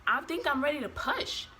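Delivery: retold urgent notice, held in check; insistent. Labouring mother telling her nurse, mildly insistent.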